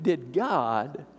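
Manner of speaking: slow, drawn "really say"; mock serpent's question; sly doubting tempter. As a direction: tempt slowly. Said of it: "so, so Eve".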